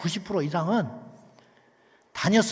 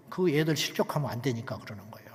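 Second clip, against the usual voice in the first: sudden hushed whisper; whispered explanation; 7 semitones lower, 6 dB quieter than usual. Acted. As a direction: lean in and whisper the reason. Preacher whispers the reason.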